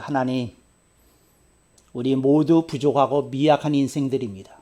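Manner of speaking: gentle pastor's prayer. Retold or imitated. Retold prayer.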